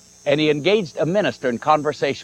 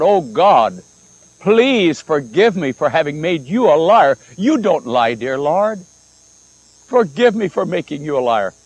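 mildly raised, pleading prayer; retold crying out. Woman on her knees begs God's forgiveness, mild retold cry. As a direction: cry out to God, half-restrained. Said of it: "she cried out".

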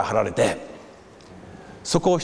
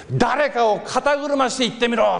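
slower, higher imitated heckle in a changed voice; crowd dare; 10 semitones higher than usual. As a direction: taunt him like someone in the crowd. Crowd eggs him on. (群衆のはやし声をまねて)

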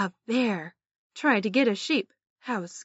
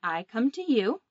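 sweet patient sunday school; 3 semitones higher than usual. Shown as a demonstration. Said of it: "let's say it together".

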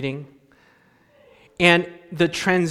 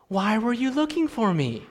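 put-on innocent child; 2 semitones higher, 4 dB quieter than usual. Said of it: "with an innocent face and says".

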